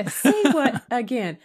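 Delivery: a hint of the stern father's dare; menacing Tywin quote. Friend retelling the scene, acting the dare.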